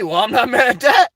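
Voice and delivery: amused, with a laugh breaking in. Real, not acted. Streamer reacting to a viewer's comment, laughing. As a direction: laugh partway through the line. Repeats the line while laughing.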